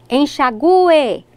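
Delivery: enxague with the U stressed, en-sha-GU-e. Shown as a demonstration. Teacher showing the old form, enxague stressed on the U. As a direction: hit the U in enxague, drawn as its own syllable. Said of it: "com a mesma pronúncia".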